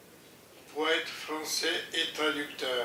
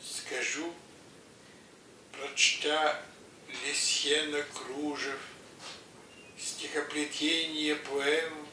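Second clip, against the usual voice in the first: poem recitation; slower than usual. Acted.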